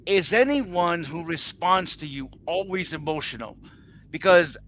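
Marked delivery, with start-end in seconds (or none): 0.0-3.6 slow, deliberately evened-out question; attempted monotone. Shown as a demonstration. Retrying the question after coaching, attempted monotone. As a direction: try to keep it all on one note, slowly. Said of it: "I will try".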